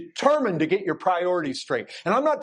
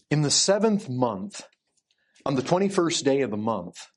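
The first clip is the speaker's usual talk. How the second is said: lower, measured Bible-reading voice; scripture reading; 7 semitones lower than usual. Acted. Preacher reading the prophet Haggai to the congregation, lower scripture reading. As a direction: read the verse out solemnly in a lower pitch.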